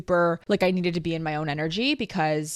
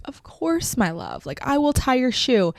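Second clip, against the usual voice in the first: imitating Tremon; 7 semitones higher than usual. Tremon's tender reply, retold.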